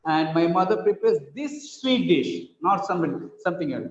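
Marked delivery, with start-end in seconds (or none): 0.3-2.5 extra emphasis on "this"; stress on THIS. Shown as a demonstration. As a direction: point out "this" with the voice. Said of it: "This, this one, not that one".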